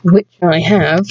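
slow smug taunt; smug gloat. Acted. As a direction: rub it in slowly. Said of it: "Just to rub it in on them".

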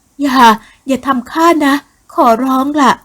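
high, loud plea, slowed down; frightened begging. Acted. Doomed woman begging the soldier to spare her, high frightened plea. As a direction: beg for mercy in fear.

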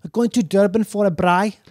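South African accent, repeated for the listener; lightly put-on Afrikaans accent. Shown as a demonstration. Guest repeats the line for a puzzled host, in South African accent. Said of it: "I don't even know what you said".

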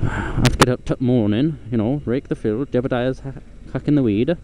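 lightly voiced rustic farmer accent; a hint of West Country farmer accent; farmer's voice. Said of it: "a farmer's voice".

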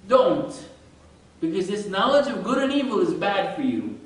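lampoon the Bible's warning; a hammed-up stern prohibition; mock stern commandment. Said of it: "So the Bible is saying".

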